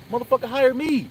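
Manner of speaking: high, loud mock yell of a demand; retold demand. Telling the store owner to hire him, retold as a high loud mock yell. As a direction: throw it at the boss like a dare. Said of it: "I said".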